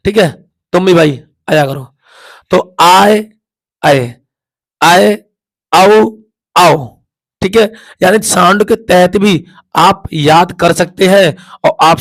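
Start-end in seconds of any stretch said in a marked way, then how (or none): 2.5-6.8 आए then आओ said slowly, vowels held; sounding out. Shown as a demonstration. Teacher sounds out आए and आओ for students, held vowels.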